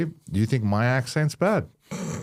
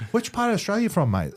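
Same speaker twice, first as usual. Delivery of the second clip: imitated American; 9 semitones higher than usual. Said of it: "I've heard that".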